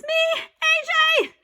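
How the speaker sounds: high, loud shout; calling out. Acted. Boy calling out to the mayor. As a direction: yell to be noticed.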